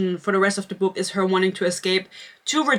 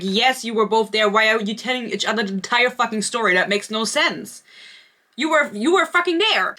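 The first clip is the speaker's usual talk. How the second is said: exasperated mock rant; 2 semitones higher than usual. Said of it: "It's like".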